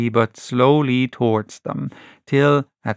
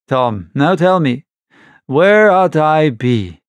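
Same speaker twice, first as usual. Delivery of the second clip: rough pirate pleading, pushing louder; Silver's urgent appeal; 3 dB louder than usual. Acted. Silver urging Tom to join him, pressing appeal. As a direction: plead hard, man to man.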